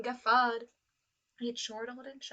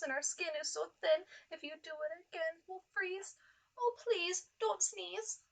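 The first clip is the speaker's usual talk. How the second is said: pleading fish voice; 5 semitones higher, 4 dB louder than usual. Acted.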